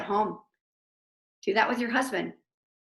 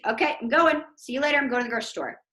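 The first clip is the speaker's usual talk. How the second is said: cheerful giving in; 3 semitones higher, 3 dB louder, much faster than usual. Retold or imitated. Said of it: "after countdown".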